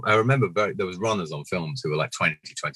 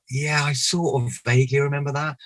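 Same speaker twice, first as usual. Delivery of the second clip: higher, hesitant humouring reply; feigned vague recall; 9 semitones higher than usual. Retold or imitated. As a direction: play along politely, pitched up. Acts polite, unsure reply to fans.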